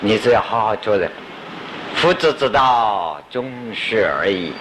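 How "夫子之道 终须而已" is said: slow, weighty recital of the classic; slow citation. Shown as a demonstration. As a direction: intone each word of the quotation slowly. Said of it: "什么叫终须呢".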